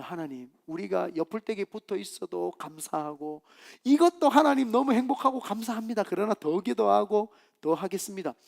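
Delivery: demonstrated grateful prayer; thankful prayer. Shown as a demonstration. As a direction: give earnest thanks in a sustained praying tone. Models a thankful prayer instead.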